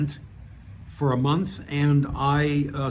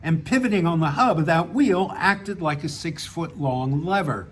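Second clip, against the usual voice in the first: measured reading of a written story; story narration. A narrator's reading. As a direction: read your short story aloud, pausing between sentences. Reads own story aloud.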